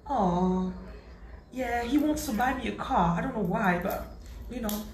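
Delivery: put-on older wife who can't pick a car; imitating the older wife. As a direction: drawl it like a spoiled wife.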